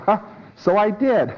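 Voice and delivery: surprised realization. Acted. Preclear caught out, surprised.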